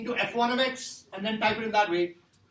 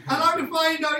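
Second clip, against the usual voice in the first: a 1; 7 semitones higher, 6 dB louder than usual. Retold or imitated. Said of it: "the guy was like".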